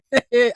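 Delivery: short amused laugh; quick little giggle; light chuckle. Real, not acted. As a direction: chuckle briefly to yourself. Amused aside while commenting.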